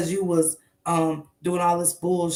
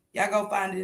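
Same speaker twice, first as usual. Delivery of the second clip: ordinary delivery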